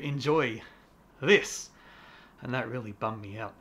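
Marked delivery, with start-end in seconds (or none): 2.4-3.5 breathless, rushed; panting from the stairs; out of breath. Real, not acted. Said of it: "Sorry, I'm out of breath".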